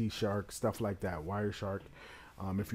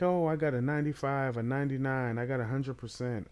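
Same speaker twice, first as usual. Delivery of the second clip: higher-pitched, quick bragging imitation; boastful know-it-all, raised pitch, punched opening; mock gloating; 5 semitones higher, 4 dB louder, faster than usual. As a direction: imitate someone showing off their score. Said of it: "gloat and be like".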